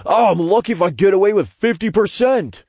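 high-pitched imp voice, protesting; Todd protesting. A narrator's reading. Imp admits poor odds to the narrator, high protest. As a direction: whine it high and defensively. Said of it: "Todd protested".

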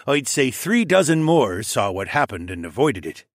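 lightly voiced orange dragon; volunteer with a touch of character voice; Theo. Plays Theo reporting back.

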